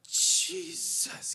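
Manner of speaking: "Jesus" breathed without voice as her try; imitating the girl's whisper. Pastor mimics the girl's whispered attempt at Jesus. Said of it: "Can you say Jesus?".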